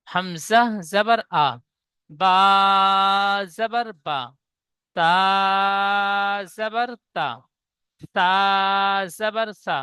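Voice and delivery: slow syllable chant জাবার তা; fatha recitation drill. Shown as a demonstration. Teacher leads the students through the fatha chant. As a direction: recite জাবার সা one letter at a time. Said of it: "অক্ষরে টান দিয়ে পড়ব".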